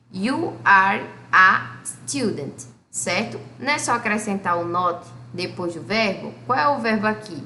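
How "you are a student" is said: slow, careful English model sentence; slow model reading. Shown as a demonstration. Teacher models an English sentence slowly for students. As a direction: spell it out slowly for the class. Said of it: "Olha aqui".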